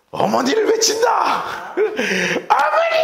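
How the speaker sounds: high, slow, drawn-out shout; barked command. Retold or imitated. Platoon leader ordering recruits to cry out for mother, slow high shout. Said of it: "소대장이 뭐라 그런 줄 아세요".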